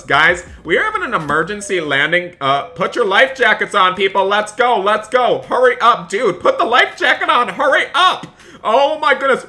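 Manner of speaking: frantic flight attendant barking orders; panicked shouting. Acted. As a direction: yell orders at passengers in a panic. Emergency landing panic in game.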